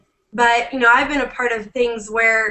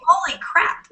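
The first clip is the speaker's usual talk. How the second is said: higher-pitched retold astonishment; retold amazement; 7 semitones higher than usual. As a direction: relive the amazed reaction, pitch jumping up. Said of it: "And I was like".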